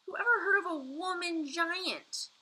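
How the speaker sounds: high, loud giant shout. A narrator's reading. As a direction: shout it at her. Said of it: "shouted the B F G".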